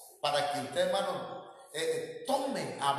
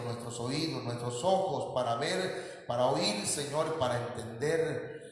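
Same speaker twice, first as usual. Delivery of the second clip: earnest pulpit prayer in measured phrases; leading a prayer; 3 semitones lower than usual. Real, not acted. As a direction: plead with God, phrase by phrase.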